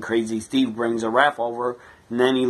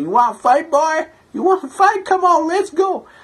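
very high, loud, goading put-on crazy-fan voice; 5 dB louder than usual. Retelling a crazy fan who showed up in a truck: put-on fan voice. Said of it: "I just put on that voice because that's what he sounded like to me".

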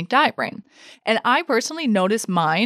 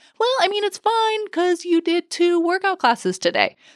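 very high-pitched, squeaky, coaxing voice; 11 semitones higher than usual. Acting out what her diet brain says to her, in a high-pitched diet-brain voice. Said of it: "Mine's always in a high-pitched voice".

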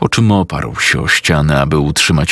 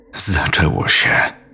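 whispered, voice cracking and breaking. Narrator reads a man's words as silence falls, in a whisper with breaking voice. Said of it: "łamiącym się głosem wyszeptał".

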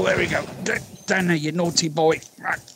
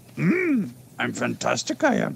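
put-on little alien sage voice, lower; 5 semitones lower than usual. Answering praise about dual wielding: Yoda voice. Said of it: "I didn't know Yoda was dual wi-, wielding".

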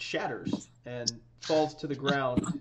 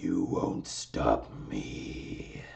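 very low, dark, slow guttural rasp, drawn out. Narrating the crystal falling apart as an unknown voice speaks, guttural and dark. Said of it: "It's really kind of guttural and dark".

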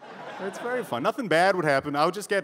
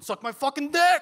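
put-on very high-pitched yell; 11 semitones higher than usual. Retelling a street fight between two men: imitating a man yelling. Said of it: "this one guy was yelling at the other guy".

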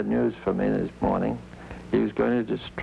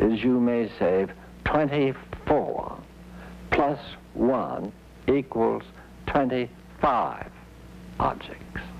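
raised, louder voice, much slower. Retelling what a man told him, now in a louder voice. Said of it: "and this was in a louder voice".

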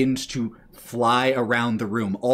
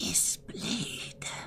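hushed whisper, higher and quieter; 10 semitones higher, 13 dB quieter than usual. Voicing a kobold studying a glowing dagger: whispering. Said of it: "he whispers".

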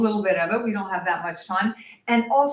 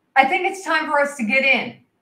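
raised, fairly loud voice, pitched up to carry; 5 semitones higher, 3 dB louder than usual. Retelling calling to a swimmer in the next lane, saying it pretty loudly. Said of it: "And I say pretty loudly".

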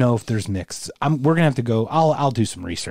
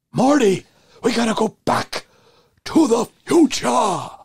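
very high, pitched-up voice; 10 semitones higher than usual. Doing an impression as Doc talking to Marty: Christopher Lloyd voice. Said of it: "It's not a bad Christopher Lloyd".

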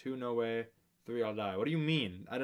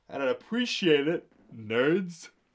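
talking through a yawn; 3 semitones higher, 9 dB louder than usual. Youtuber asking viewers to subscribe to the channel, yawning while speaking. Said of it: "I'm yawning while mid-speech".

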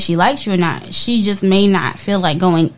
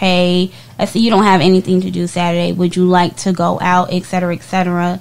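normal talking voice

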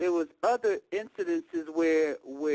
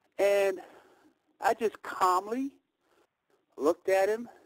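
ordinary delivery

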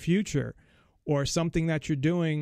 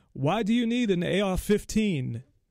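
bad put-on English accent, pitched up; 5 semitones higher than usual. Quote Piers Morgan's question to people on his show, in a Piers Morgan voice with a poor English accent. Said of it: "I can't really do an English accent that well".

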